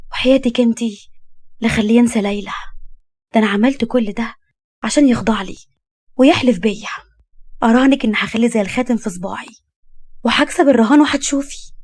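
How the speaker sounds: playful, self-assured scheming; scheming young woman, boastful. Acted. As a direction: boast to a confidante about winning. Overheard boasting about a bet.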